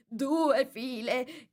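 high, long-drawn calling out; Mock Turtle's cry. A narrator's reading. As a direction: call it out, stretching every syllable. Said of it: "gridò la finta tartaruga". (grido acuto e strascicato)

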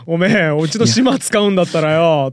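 slow, menacing gangster demand; yakuza voice. Pretend. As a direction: growl it like a mob boss. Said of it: "ヤクザやん".

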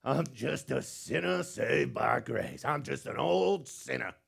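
slow, humble churchgoer's sigh; lightly mocking humble church voice; pious cliché. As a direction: voice a meek believer belittling himself. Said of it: "Everybody heard that?".

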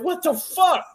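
high, slow disbelieving outcry; mock outrage at the stat sheet; incredulous. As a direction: squeal it out in total disbelief. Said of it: "I'm like".

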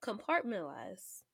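"Compartmentalize" drawn out slowly, syllable by syllable; slowed down. Shown as a demonstration. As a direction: say "Compartmentalize" slowly and carefully to get it right. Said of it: "I gotta slow down".

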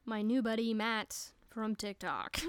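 light mock radio-announcer read; playful radio host shout-out. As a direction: introduce the segment like a half-serious DJ. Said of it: "That's my radio voice".

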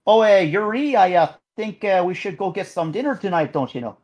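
put-on light French-Canadian accent, hesitant; mock Quebecois accent. Podcaster imagines JJ asking Yuri to dinner, mild Quebecois accent. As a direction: play JJ with a hinted Quebec accent. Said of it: "if they gave him an actual accent".

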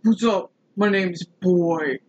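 slow, cool street swagger; street-tough cat. Acted. Playing the cat Boy out on the streets, slow swagger. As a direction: introduce yourself like a cat with street cred. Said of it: "He goes out in the streets".

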